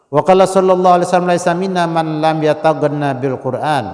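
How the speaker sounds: loud preacher quoting the Prophet; proclaiming hadith. Acted. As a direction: announce the Prophet's words with force. Preacher quotes hadith forcefully.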